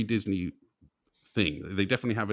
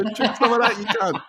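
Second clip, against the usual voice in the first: higher, louder hammed-up rage, laughing through it; mock furious yell; 9 semitones higher, 5 dB louder than usual. Angry dad soaking his kid, laughing mock yell. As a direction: play a raging dad, half laughing. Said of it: "splash it in his face and go".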